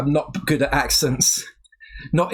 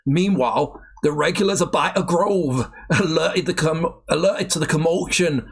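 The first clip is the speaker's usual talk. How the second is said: shaky-skilled mock Geordie narration; attempted Geordie accent. Taking over the Biker Grove script, attempted Geordie accent. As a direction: read it out in an amateur Geordie accent. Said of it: "It's not that I've not heard a Geordie accent".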